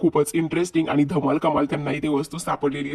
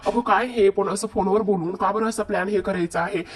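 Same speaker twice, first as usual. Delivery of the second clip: puzzled protest; 3 semitones higher than usual. Retold or imitated. Woman questioning a plan over the phone, puzzled protest. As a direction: act out a baffled complaint.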